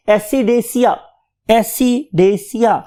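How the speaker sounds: acidaceae sounded out as assi-DAY-sia; pronunciation demo. Shown as a demonstration. Teacher shows students how to say it, careful slow acidaceae. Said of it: "So बोलेंगे आप इसे कैसे".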